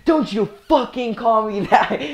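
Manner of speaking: angry yell. Retold or imitated. Teacher swearing at the girl, retold angry yell. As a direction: imitate a teacher lashing out in anger. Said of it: "starts swearing and yelling at her".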